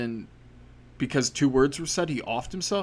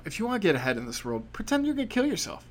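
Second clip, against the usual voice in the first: sarcastic advice, jumping higher at the end; mocking advice; 5 semitones higher, faster than usual. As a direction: preach it mockingly. Mock advice to kids.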